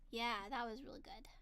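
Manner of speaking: hushed aside; whispered. Real, not acted. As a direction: breathe it out softly. Aside after tasty food.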